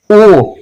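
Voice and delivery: ओ held long with rounded lips. Shown as a demonstration. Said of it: "long sound". (गोल होंठों से लंबा ओ)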